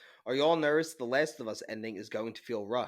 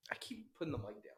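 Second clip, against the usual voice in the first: whispered aside; 4 semitones higher, 11 dB quieter than usual. Real, not acted. Aside about holding the mic.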